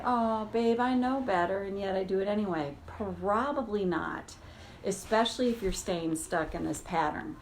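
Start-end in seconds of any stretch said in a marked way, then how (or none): 0.0-2.8 kindly pat on the back, a little put on; lightly voiced friendly inner voice; mock friendly voice. Shown as a demonstration. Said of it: "does that voice feel really friendly?".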